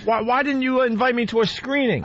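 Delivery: squeaky high-pitched voice; high voice like a cartoon mouse; helium voice. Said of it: "take the helium balloon out your throat".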